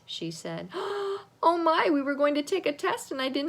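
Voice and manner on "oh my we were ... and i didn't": sudden panic. A narrator's reading. Hamster panics about test.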